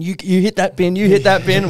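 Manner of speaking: bossy mum. Retold or imitated. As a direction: imitate mum pressing the kids on. Retold mum ordering the kids.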